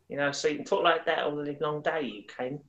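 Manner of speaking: casual East End London accent; Cockney accent. Shown as a demonstration. Wrapping up his accent demo for the host, in a Cockney accent. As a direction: round it off in easy Cockney. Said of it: "the East End of London".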